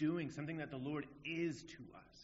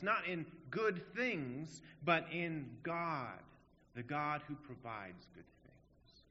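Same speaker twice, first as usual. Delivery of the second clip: slow, louder, every phrase weighted; emphatic preaching; 2 semitones higher, 4 dB louder, slower than usual. Acted. Preacher pressing the congregation on faith, slow and emphatic. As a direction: lean hard on each phrase. Preacher stressing unwavering confidence.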